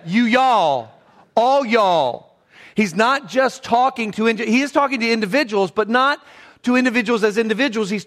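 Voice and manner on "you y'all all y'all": playful drawn-out Southern y'all; Southern drawl. Shown as a demonstration. Pastor quoting a joke Southern Bible version, Southern drawl. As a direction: quote it with a stretched Southern drawl. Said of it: "the New Southern Version".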